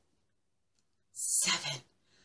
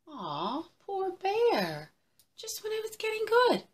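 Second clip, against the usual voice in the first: sympathetic pity; 13 semitones higher than usual. A narrator's reading. Pitying the bear.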